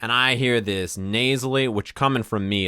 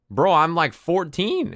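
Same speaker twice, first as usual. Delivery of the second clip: higher-pitched mock protest; indignant protest; 6 semitones higher, slower than usual. Young gamer insisting on his age to taunting kids, indignant protest. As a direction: pitch it up in exasperated disbelief.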